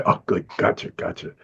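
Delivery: sheepish whispered agreement; hushed, fading "gotcha"; mock meek reply. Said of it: "And I'd say".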